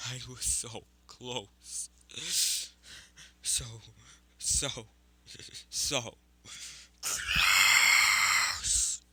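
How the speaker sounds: slow, broken build to a furious shout; screaming and roaring. Acted. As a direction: build from halting words into a huge roar. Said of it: "As he is screaming and roaring".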